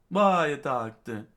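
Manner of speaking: high, loud, slow question; anguished cry. Acted. Chopper thinking back to his doctor, anguished cry.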